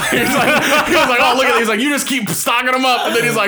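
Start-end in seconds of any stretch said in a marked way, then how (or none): 1.2-1.6 high, loud goofy Waterboy voice. Retold or imitated. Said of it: "He's like a fucking water boy". 1.8-3.1 high, shouted goofy Waterboy voice. Retold or imitated. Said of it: "He's like a fucking water boy".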